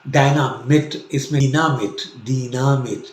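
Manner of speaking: डिनामिट with ee and short i; डिनामिट as German; German Dynamit. Shown as a demonstration. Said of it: "अब डायनामाइट".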